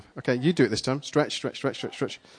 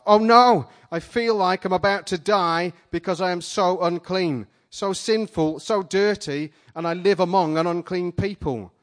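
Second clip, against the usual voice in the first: loud, high, desperate cry of doom; anguished shout; 6 semitones higher, 8 dB louder than usual. Acted. Isaiah before the King of Kings, shouting in terror. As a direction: cry out as if about to die. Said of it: "I shouted out as if to try and save myself".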